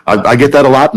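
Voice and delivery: said through a laugh; amused, still laughing. Real, not acted. Judge laughing at quip.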